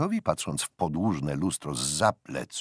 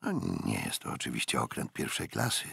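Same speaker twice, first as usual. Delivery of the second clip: softer musing to himself; inner thought; 7 semitones lower, 5 dB quieter than usual. A narrator's reading. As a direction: think it through quietly. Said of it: "zauważył Aubrey w duchu". (cicha myśl w duchu)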